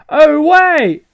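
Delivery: high, loud put-on girl voice; excited girl. Girl stopping her friend, high excited voice. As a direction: pipe it up like a startled girl. Voicing the game's girl character.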